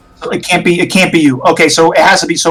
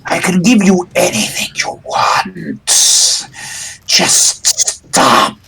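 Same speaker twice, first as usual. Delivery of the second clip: tempting spirit. Acted. Spirit tempting Rudolph with power, lightly voiced. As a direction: lure him with promises, lightly voiced.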